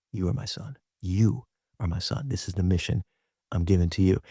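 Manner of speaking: quiet, sincere affirmation; tender assurance. Retold or imitated. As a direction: drop the voice and say it like a blessing. Jesus voiced speaking to Peter.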